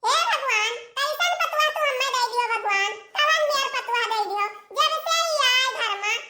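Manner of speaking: a hint of a mother-in-law moaning to God; grumbling mother-in-law.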